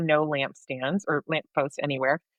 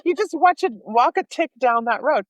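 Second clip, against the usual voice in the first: louder, higher mock Irish bus driver; a bit louder Irish impression of the bus driver; imitating Irish driver; 6 semitones higher, 4 dB louder than usual. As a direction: repeat the driver's line in a hammed-up Irish lilt. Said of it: "That's so Irish".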